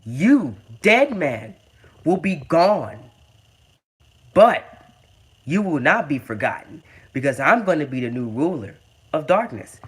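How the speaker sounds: measured wrestling promo with heavy pauses; Finn Balor. Retold or imitated. Wrestler warning his dead man rival, in a lightly dramatized promo. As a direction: lightly act out a menacing promo, phrase by phrase. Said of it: "So he said that the Demon King".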